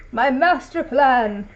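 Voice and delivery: slow, loud gloating villain. Pretend. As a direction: savour each word like an evil genius. Villain boasting about his plan.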